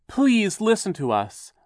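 high, loud, drawn-out plea; begging. A narrator's reading. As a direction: beg desperately to be heard. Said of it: "Violet begged Mister Poe".

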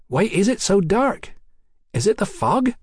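high-voiced cheeky London girl. A narrator's reading. Hetty questions Mallory.

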